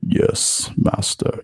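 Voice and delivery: a hint of Vader's voice, breathy and unvoiced; Darth Vader. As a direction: lightly mimic the dark lord's reply. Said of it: "like, even Darth Vader".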